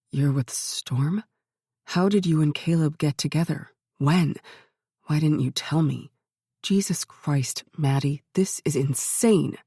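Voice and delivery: stunned disbelief from a brother; a hint of a dazed older brother; shocked brother.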